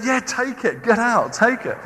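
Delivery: eager to be rid. Retold or imitated. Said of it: "the Egyptians said".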